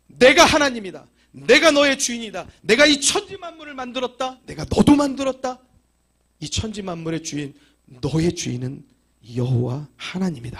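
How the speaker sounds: loud, high voice of God declaring; God proclaiming. Acted. God declares to mankind he is their master, booming. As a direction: announce yourself as Lord of all.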